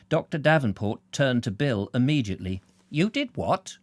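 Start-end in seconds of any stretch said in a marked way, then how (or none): 2.9-3.8 stunned disbelieving question, pitched up; amazed. Acted. Doctor amazed at Bill's surgery, stunned. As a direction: blurt it out in shock. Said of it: "he asked in amazement".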